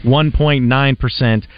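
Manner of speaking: lively host-read car dealer spot; radio ad read. Acted. Radio host pitching a Chevrolet dealer to listeners, upbeat ad read. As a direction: sell it with punched key phrases. Live sponsor read on air.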